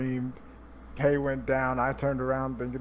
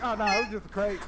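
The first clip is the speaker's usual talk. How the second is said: laughing mock; 8 semitones higher, faster than usual. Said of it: "He's like".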